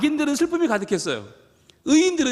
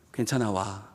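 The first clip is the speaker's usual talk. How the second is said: much lower and softer, reassuring; a soft low welcome; God's gentle answer; 13 semitones lower, 7 dB quieter than usual. Retold or imitated. God reassuring the ashamed sinner to come, low and soft.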